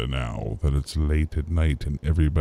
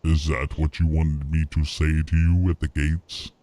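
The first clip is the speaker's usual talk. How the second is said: mock biblical prophet. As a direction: pronounce judgment gravely. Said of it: "In that, in that voice".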